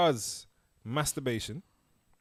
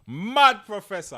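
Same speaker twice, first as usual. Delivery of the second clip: Mad Professor, high, loud and slow; hyped announcer call; 9 semitones higher, 8 dB louder than usual. Shown as a demonstration. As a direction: announce it like a wrestler. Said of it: "I love that".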